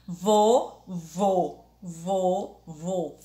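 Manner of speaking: "vô" with a closed, rounded O; closed vowel. Shown as a demonstration. Teacher shows the circumflex closing the sound, closed "vô". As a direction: close the O of "vô" tight, muffled. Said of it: "o som fechado das vogais".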